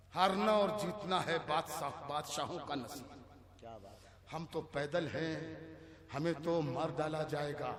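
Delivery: soft, low recitation; relaxed verse recital. Acted. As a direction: lay the line out quietly. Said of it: "जो शेर धीरे से पढ़ दिया जाए". (धीरे से, नीची आवाज़ में)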